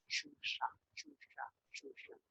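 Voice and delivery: mock whining complaint. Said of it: "Ada orang ngomongnya itu susah".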